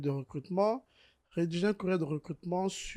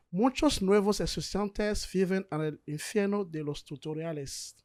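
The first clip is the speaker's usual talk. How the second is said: Spanish read aloud by a French non-speaker; amateur Spanish accent; 2 semitones higher than usual. Shown as a demonstration. Tutorial host trying out Spanish for the viewers, amateur Spanish accent. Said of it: "Notez mon accent, euh, espagnol".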